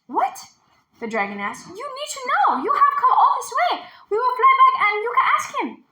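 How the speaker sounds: high, loud, urgent pleading; dismayed insistence. A narrator's reading. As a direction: insist she must go back and ask.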